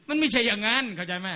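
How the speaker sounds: ordinary talk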